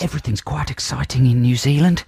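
breathy, earnest Kiwi; New Zealand accent. Shown as a demonstration. Host demonstrates Kiwi for co-host, earnest New Zealand accent. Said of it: "And more breathy and earnest".

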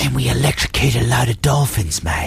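hesitant, rambling fake Aussie; badly faked Australian storyteller; mock Australian accent. Australian friend recounts fairy lights trouble, mock Australian accent. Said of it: "they're very poor Australian accents".

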